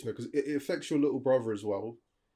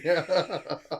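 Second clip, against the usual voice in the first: pug snorting noise; 5 semitones higher than usual. Pretend. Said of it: "I thought there was a pug in the room".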